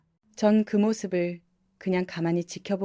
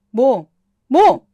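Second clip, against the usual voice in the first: loud, high, shocked 뭐 twice, the second much higher; outraged shriek; 4 semitones higher, 11 dB louder, much slower than usual. Acted. 시어머니가 며느리의 말에 기가 막혀 소리치는 높은 고함. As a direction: shriek it in disbelief. Mother-in-law outraged at daughter-in-law.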